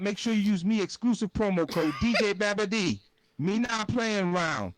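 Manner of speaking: lightly done Jamaican patois ad read; a hint of Jamaican lilt. Shown as a demonstration. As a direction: pitch the ad with a Jamaican accent. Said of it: "let's do this Jamaican patois style".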